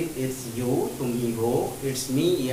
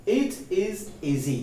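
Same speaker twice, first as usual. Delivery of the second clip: very slow, each word laid out for learners; slow model sentence; 4 semitones higher, much slower than usual. Shown as a demonstration. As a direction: spell it out slowly like a teacher modelling. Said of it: "teacher models example sentence".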